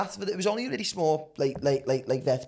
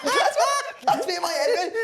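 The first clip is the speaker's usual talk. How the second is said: laughing hard; 11 semitones higher, 4 dB louder than usual. Real, not acted. Laughing at own mistake.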